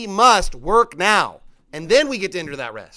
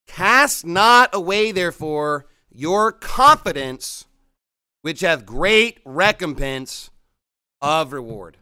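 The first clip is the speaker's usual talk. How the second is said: slow, emphatic verse reading; deliberate preacher's scripture reading; 3 semitones lower, 4 dB louder, slower than usual. Acted. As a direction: read the verse slowly, weighting key words.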